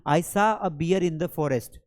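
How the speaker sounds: slow, clear teacher read; slow model sentence. Shown as a demonstration. Teacher reading an example sentence slowly to students. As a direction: spell it out for learners. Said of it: "teacher models example slowly".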